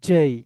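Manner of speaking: জেই with "j" and a gliding "ay"; corrected English J. Shown as a demonstration. Teacher shows how to say J, corrected pronunciation. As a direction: say জেই firmly as "jay". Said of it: "কি বলবো".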